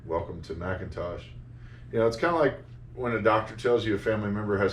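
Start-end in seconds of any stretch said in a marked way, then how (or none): 0.1-1.2 flat, lower and softer, no inflection at all; robotic computer voice. Retold or imitated. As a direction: read it like an old talking Mac. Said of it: "it had no inflection".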